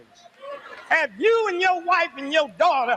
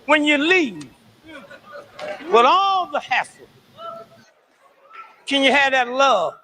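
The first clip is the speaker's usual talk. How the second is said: preaching at full force; 4 semitones lower than usual. Acted. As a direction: lean hard into the sermon, hammering each line.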